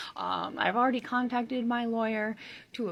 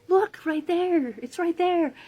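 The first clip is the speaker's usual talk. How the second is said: urgent insisting; 7 semitones higher, 7 dB louder, slower than usual. Retold or imitated. Delirious pointing at giants.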